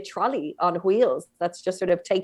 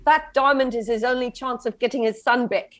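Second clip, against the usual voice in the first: South African accent; 3 semitones higher than usual. Shown as a demonstration. Interviewee showing off accents on request, South African accent. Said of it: "South African".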